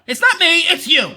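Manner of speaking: insistent mock denial; mock blame-shifting. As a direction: imitate someone pushing the blame away. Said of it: "come out right and say".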